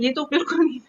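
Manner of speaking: laughing it off; laughing refusal. Retold or imitated.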